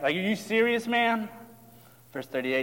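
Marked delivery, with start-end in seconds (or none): 0.0-1.3 higher-pitched mild sarcasm; sarcastic disbelief. Acted. Disciples challenging Jesus, mildly sarcastic and incredulous. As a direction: question him with a touch of disbelief. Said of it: "you can sense the sarcasm".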